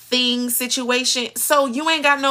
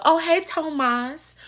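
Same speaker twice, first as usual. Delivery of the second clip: lightly voiced sweet greeting, slow; mock her drawn-out greeting; imitating Eva; 5 semitones higher than usual. Mocking Eva saying Tomas, sweetly drawn out. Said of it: "Eva try so hard to say Tomas".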